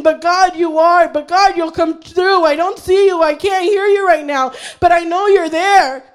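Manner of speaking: fervent plea of faith; crying out to God. Acted. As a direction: insist through doubt, calling to God. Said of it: "he would cry out to the Lord".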